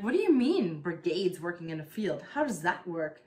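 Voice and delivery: put-on demanding an answer like a frustrated kid; mad child. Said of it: "got mad at her".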